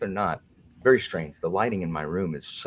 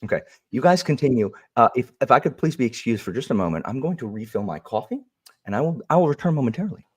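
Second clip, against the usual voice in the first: prim moderator voice; 4 semitones higher, 3 dB louder than usual. Pretend. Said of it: "if this is the new Alan".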